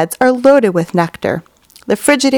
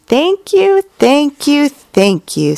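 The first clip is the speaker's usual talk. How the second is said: high, gushing repeated thanks falling away; bow and gush like a flattered goose; 7 semitones higher, slower than usual. A narrator's reading. Goose thanking Charlotte shamelessly, high gushing. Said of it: "nodding and bowing shamelessly".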